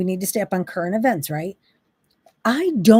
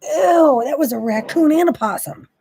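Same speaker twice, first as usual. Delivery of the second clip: mock gawking fascination; 3 semitones higher, 4 dB louder than usual. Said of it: "you're going".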